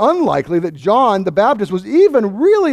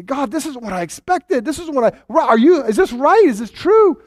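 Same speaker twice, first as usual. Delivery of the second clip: anxious doubting questions; 5 semitones higher than usual. Retold or imitated. Believer questioning God in doubt.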